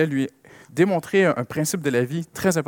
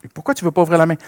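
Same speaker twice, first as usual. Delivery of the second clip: higher and louder firm demand; father insisting; 4 semitones higher, 10 dB louder than usual. Retold or imitated. Father at the counter telling his daughter to pay, firm and louder. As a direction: tell the child it's time to pay. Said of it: "Je dis".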